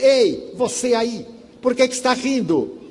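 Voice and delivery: irritated passenger shouting across the queue at him; angry shout. Retold or imitated. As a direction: snap the question out in irritation. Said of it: "a pessoa ficou encolerizada. E fez".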